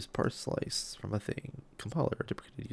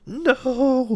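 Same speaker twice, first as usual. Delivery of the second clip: loud shout; 9 dB louder than usual. Real, not acted. Code change fails again.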